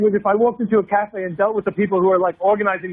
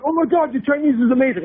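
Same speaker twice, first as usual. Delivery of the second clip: higher-pitched gushing praise; hammed-up awe; mock amazement; 5 semitones higher than usual. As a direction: imitate someone wildly impressed. Imitates locals gushing over a foreigner's Chinese.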